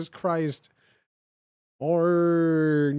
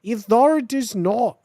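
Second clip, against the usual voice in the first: a clumsy Aussie villain threat; worst Australian accent; 3 semitones higher, 4 dB louder than usual. Acted. Voldemort threatening the narrator in bad Australian accent. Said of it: "This is the worst Australian accent".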